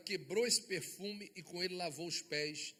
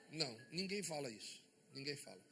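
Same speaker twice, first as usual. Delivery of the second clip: sudden hush; 5 semitones lower, 9 dB quieter, faster than usual. Acted. Preacher drops voice for emphasis.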